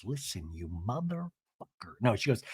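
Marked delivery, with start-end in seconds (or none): 0.0-1.3 low, much softer mock threat; mock menacing aside. Shannon leaning down to Alexis, a soft low mock menace. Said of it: "leans down to Alexis and says".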